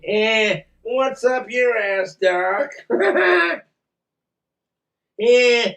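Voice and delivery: lightly voiced cartoon rabbit catchphrase; cartoon wisecracker. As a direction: ham up a wisecracking cartoon voice with a chuckle.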